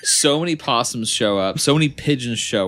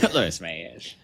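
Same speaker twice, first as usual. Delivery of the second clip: low, odd croaky imitation; creature voice; 5 semitones lower, 6 dB quieter than usual. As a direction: echo it in a croaky bird voice. Echoing the raven line.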